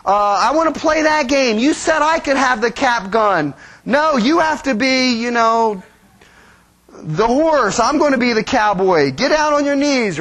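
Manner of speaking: put-on a kid demanding their way; a hint of a whiny child; squabbling kids. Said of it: "Kids, right?".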